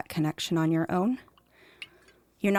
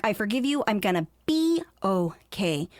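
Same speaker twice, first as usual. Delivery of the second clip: rushed forgiveness. Retold or imitated. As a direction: brush it off to close the subject. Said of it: "It's like".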